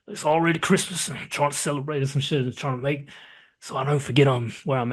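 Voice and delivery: imitating a Southern pilot; Southern pilot accent. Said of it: "trying to sound like a Southern pilot".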